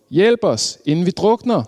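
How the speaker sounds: high, urgent plea shouted over a storm; råb om hjælp. A narrator's reading. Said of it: "råbte de". (højt råb om hjælp)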